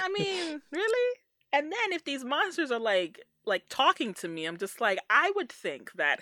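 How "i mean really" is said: high, doubtful really?; mock disbelief in a high voice; incredulous. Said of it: "I would be like".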